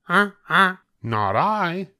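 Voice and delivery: a goose flatly refusing. A narrator's reading. Goose refusing to help the hen in a high voice. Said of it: "said the goose".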